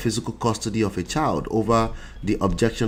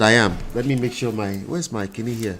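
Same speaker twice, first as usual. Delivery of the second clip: blocked nose. Real, not acted. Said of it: "I'm still congested".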